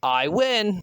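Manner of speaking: a lightly hammed-up victory declaration; mock triumphant declaration. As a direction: declare it like a comic-book hero. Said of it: "the Flash declaring".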